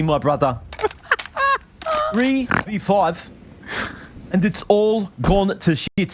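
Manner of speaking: put-on Western Sydney brother-speak; put-on Western Sydney accent. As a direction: cast the match as a hectic Western Sydney lad. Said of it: "It might actually be your real accent".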